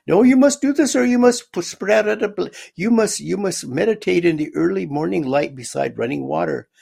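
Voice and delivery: imitating an old man who won't take no; insistent caller. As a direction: cut him off, insisting hard. Caller insisting, cutting him off.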